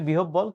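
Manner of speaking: "বিহব বল" said with a doubled hard b; common mispronunciation. Shown as a demonstration. Teacher quoting what many people say, mispronounced "বিহব বল" with double b. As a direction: quote the popular "বিহব বল", b-b in the middle. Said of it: "অনেকে উচ্চারণ করে".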